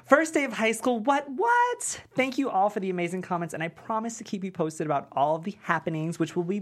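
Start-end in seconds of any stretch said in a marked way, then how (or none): 0.0-3.6 vlogger intro. Acted. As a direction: greet your viewers like a YouTuber. Jordan vlogging to camera.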